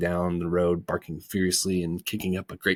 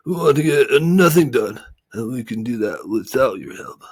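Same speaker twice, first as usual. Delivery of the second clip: indignant, a little louder; mild angry snap; 5 semitones higher, 8 dB louder than usual. Acted. Lethargian rejecting Milo's help, mildly angry. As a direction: bristle at the offer of help. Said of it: "snapped another angrily".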